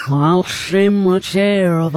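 sung through a mouthful; words round a bite of food; mouth full. Shown as a demonstration. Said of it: "like I'm saying it with a mouthful".

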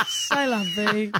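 put-on French accent.

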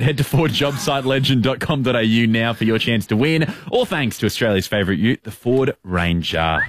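upbeat promo sign-off; ad read. Acted. Closing ad read.

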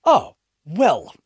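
okay rising high and deflated; mock-awkward brush-off. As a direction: shrug off a snub awkwardly. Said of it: "just looks at me and goes".

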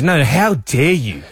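slow, mock-indignant repeat; insistent outrage. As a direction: drag it out like an offended colleague. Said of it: "And he goes".

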